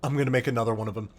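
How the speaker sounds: fretful machine mind, low and hushed; panicked Vex mind. Retold or imitated. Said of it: "And Quiria's like".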